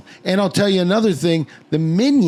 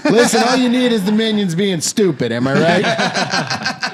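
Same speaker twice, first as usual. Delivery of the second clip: brash movie producer; 4 semitones higher than usual. Pretend. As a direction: pitch it like a slick studio exec. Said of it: "I sound like a Hollywood producer".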